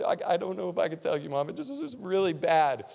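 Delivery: put-on a touch of childlike distress; upset little girl. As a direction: imitate a kid afraid to tell mom. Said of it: "the little girl was so upset".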